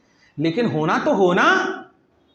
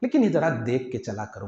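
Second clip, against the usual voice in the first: लेकिन said gently, a kind reminder; gentle smiling advice; 5 semitones lower than usual. Shown as a demonstration. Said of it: "मुस्कुरा कर आप". (मुस्कुराते हुए प्यार से)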